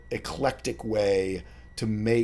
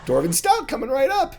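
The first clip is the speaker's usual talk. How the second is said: very high, loud squeaky halfling; chirpy barkeep greeting old friends; a high squeaky halfling barman; halfling bartender; 6 dB louder, faster than usual. Acted.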